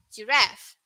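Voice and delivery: "giraffe" with a short "ref"; American pronunciation. Shown as a demonstration. Teacher contrasting US "giraffe" with the UK one. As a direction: US "giraffe", quick flat e. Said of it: "In U S".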